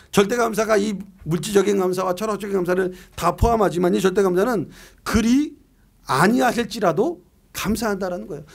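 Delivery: ordinary delivery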